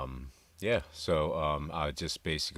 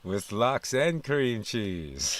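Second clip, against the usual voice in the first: laughing; 7 semitones higher, 6 dB louder, slower than usual. Real, not acted. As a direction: laugh through the words, slow. Host echoes the clip's punchline.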